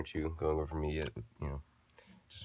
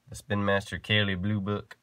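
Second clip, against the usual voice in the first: slipping into a Southern accent; a sudden light Southern twang; 2 semitones higher, 3 dB louder than usual. Real, not acted. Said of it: "that was a southern accent".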